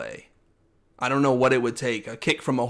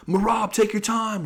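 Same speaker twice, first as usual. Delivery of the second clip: calm coach; 9 semitones higher than usual. Retold or imitated. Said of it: "he's like".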